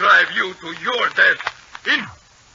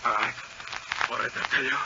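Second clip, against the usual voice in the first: defeated; 7 semitones lower, 12 dB quieter, faster than usual. Acted. Villain gives in, broken.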